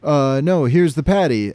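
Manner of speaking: mock SpongeBob. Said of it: "SpongeBob is like".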